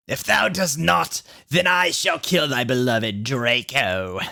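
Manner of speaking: slow, hammed-up menace; villain threat. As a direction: drag out the threat like a cartoon villain. Voldemort threatens the narrator.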